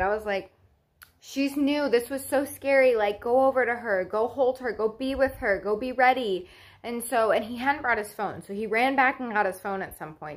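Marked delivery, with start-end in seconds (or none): 1.2-6.5 higher, insistent retold pleading; retold urgent plea. New mother sending partner to newborn, urgent plea. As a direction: push him to go, voice lifted.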